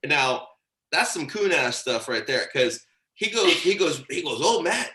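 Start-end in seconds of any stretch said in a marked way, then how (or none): 4.4-5.0 lightly higher Keith accent, imitating him; Keith's accent. Friend imitates Keith greeting him, in Keith's accent. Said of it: "doing my best Keith accent here".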